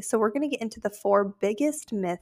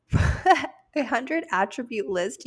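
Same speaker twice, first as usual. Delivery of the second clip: laughing while repeating the phrase; real laugh, slow higher delivery; amused laugh; 3 semitones higher, slower than usual. Real, not acted. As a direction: break into a chuckle, then stretch the words out. Amused at own hundred-item list.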